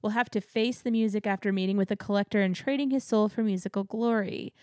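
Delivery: dramatic, measured announcer-style reading; promo blurb read. Acted. Co-host introducing the last house, dramatic blurb reading. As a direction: read it out like an attraction teaser.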